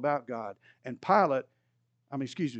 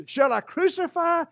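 high, mocking sneer of a question; snide; 11 semitones higher, 5 dB louder than usual. Pilate taunts the crowd, snide high-pitched question. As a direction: taunt them with a sneering lilt. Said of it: "He's still being a little bit snide".

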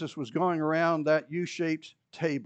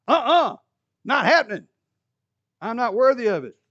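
higher, loud, emphatic "uh-uh"; flat refusal; 6 semitones higher, 8 dB louder than usual. Acted. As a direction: refuse outright and with force. Peter flatly refusing Jesus.

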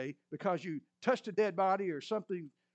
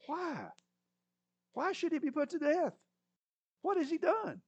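pleading son; 10 semitones higher than usual. Acted. Jonathan pleading with his father.

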